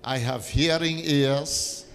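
firm, deliberate declaration, leaving room for repetition; leading a confession. Real, not acted. Preacher leading the congregation in a confession, measured and declarative. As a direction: declare it phrase by phrase, with long pauses. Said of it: "let's make this confession".

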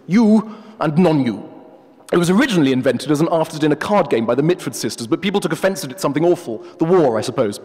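a hint of a haughty professor; pompous wolf. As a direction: play the wolf as a self-important academic. The wolf lectures.

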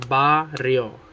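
Barrio broken lightly into BA, RRIO; split into syllables. Shown as a demonstration. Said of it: "two syllables".

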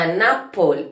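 "An apple" uniendo la n con la a sin pausa; sonidos unidos. Shown as a demonstration. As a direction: enlaza "An" con "apple" fluido. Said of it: "unir la N con la A". (di "An apple" ligando la n con la a)

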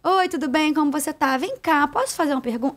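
mock polite greeting. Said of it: "só aí já perdi muito tempo".

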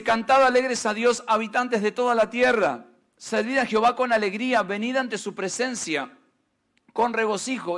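solemn scripture reading to the church; preacher reading a psalm. Acted. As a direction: read it out like holy text, measured. Reads the psalm aloud.

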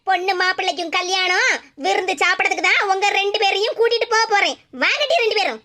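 a stern mother catching the two of them out; low, scolding mother's voice. Acted. Mother's sarcastic order.

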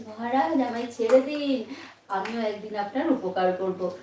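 trembling mouse. Acted. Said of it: "ভয়ে কাঁপতে কাঁপতে বলছে".

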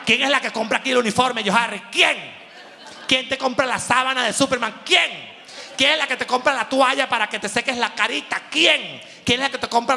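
insistent mom hammering quién; guilt-tripping mother. Retold or imitated. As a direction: rattle off the list to shame him. Mamá echando en cara. (madre reprochando con insistencia)

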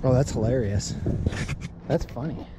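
ordinary talk, nothing marked

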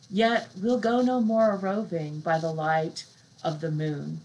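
slow, measured poetry recital; a slow recital of Byron's lyric; poem reading. Acted. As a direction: read it slowly, savouring the lines. Reads second poem aloud.

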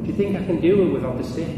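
imitated calling out; retold shout. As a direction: throw out the challenge like a tightrope showman. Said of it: "he's shouting at everybody".

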